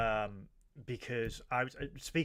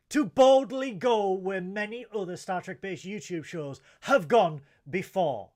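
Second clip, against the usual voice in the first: mock Star Trek opening; 3 semitones higher, 6 dB louder than usual.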